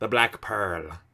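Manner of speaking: put-on Irish accent. Reacting to a movie scene, saying a ship's name: Irish accent. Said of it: "say that in an Irish accent".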